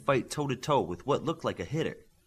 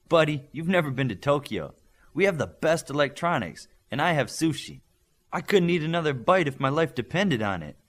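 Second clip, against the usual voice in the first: louder, higher cocky teasing; teen boy teases his teammate about Tokyo, loud and higher; boastful teen boy; 4 semitones higher, 6 dB louder than usual. Acted. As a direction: brag about Tokyo with a full belly, louder. Olympian stuffed, boasting.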